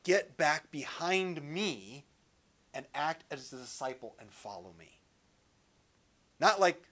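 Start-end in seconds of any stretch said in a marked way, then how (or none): 0.0-5.0 calm firm call. Retold or imitated. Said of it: "it has this idea of".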